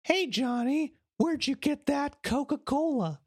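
high, put-on cartoon kid voice; squeaky mock kid asking a buddy; kid in the scene. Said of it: "if the scene is".

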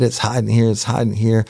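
high-pitched retold protest; mad detective. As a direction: imitate an angry detective repeating himself. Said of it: "that detective was so fucking mad".

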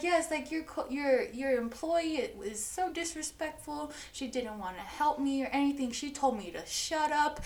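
high, plaintive complaining voice; mock-wounded whine; whiny victim. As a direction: play the wronged customer, whining to the boss. Customer whining, playing the victim.

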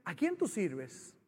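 low, slow, soft question; imitated calm divine challenge; voice of God. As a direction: speak quietly into the heart. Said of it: "oigo la voz de Dios en mi corazón".

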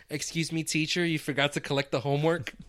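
a lightly voiced eager teacher's pet; mild mock goody-goody voice; nerdy kid voice. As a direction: pipe up like the kid who reminds the teacher about homework. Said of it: "Jack Doyle sounds like this".

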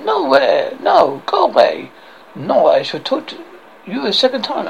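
dismissive mock French; outrageous French accent. French guard dismisses the knights, outrageous French accent. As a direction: send them off in a comic French accent. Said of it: "I have this outrageous accent".

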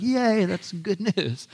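slow, laughing yay; mock cheer with a laugh. Congregation imagined cheering at good news, slow and laughing. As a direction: cheer it through a chuckle. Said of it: "we'd be like".

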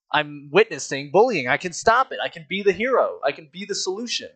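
playfully grand; mock-heroic excitement. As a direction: build up like a kid hero seizing his moment. His excited heroic thought, retold.

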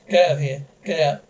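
loud angry order to leave; furious shout. Acted. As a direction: drive him out of the house. Throwing the man out.

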